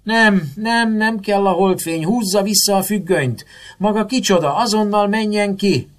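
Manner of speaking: put-on high, loud spoiled-child tantrum; piercing, panicked screeching; hysterical shriek. A narrator's reading. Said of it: "Hisztériás, éles visítással, mint az elkényeztetett gyerekek".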